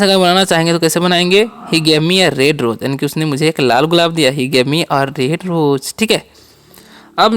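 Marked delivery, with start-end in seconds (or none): 1.4-2.8 very slow, word by word English; slow dictation. Shown as a demonstration. Teacher to students, slow dictation. 4.3-6.0 very slow, word by word English; slow dictation. Shown as a demonstration. Teacher to students, slow dictation.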